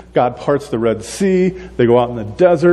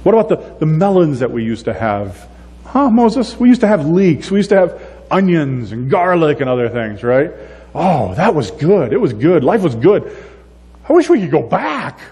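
whiny longing; 5 semitones higher than usual. Retold or imitated. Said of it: "And then they're like".

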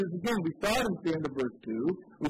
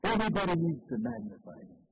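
proclaiming voice; 3 semitones higher than usual. Acted. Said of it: "the voice is saying".

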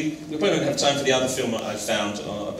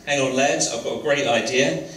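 light attempt at an Eastern accent, as Michael Caine; best Eastern accent. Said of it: "I'll do my best Eastern accent here".

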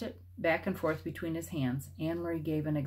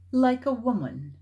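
higher, louder sneer; contempt; 6 semitones higher, 6 dB louder than usual. A narrator's reading. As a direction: spit it out with contempt. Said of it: "he added with contempt".

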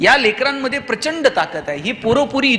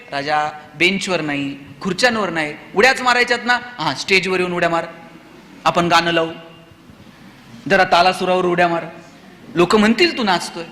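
gentle coaxing; 4 semitones lower than usual. Acted. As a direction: lure him gently toward the stage. Teacher coaxing a jumping child.

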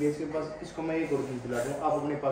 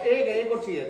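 laughing echo; 8 semitones higher, 7 dB louder than usual. Retold or imitated. Father echoes daughter's demand laughing.

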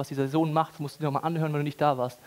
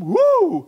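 high loud ecstatic whoop; mock worship whoop; 12 semitones higher, 9 dB louder than usual. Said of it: "steht da so am Worshipen".

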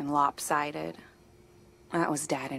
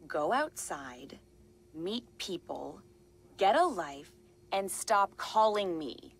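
angry scolding; slower than usual. Acted. Telling off a prank caller.

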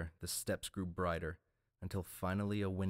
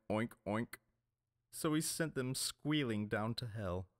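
mocking pirate; 3 semitones higher than usual. A narrator's reading. Red Oarsman mocking the hanged lords, jeering oinks. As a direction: jeer and oink at the dead lords.

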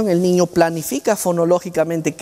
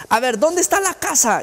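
therapist voice; 9 semitones higher than usual. Retold or imitated. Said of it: "therapist asks child".

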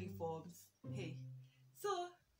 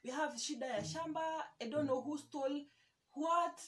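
mimicking shock; 4 semitones higher than usual. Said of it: "he's all shocked".

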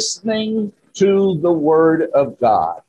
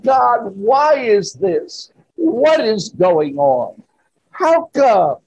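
higher-pitched, mildly anguished plea; anguished cry to God; 5 semitones higher, slower than usual. Acted. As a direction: cry out to God in drawn-out distress. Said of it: "to shrieking, to saying".

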